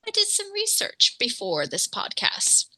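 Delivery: secretive whisper; whispered aside. Real, not acted. Confiding aside.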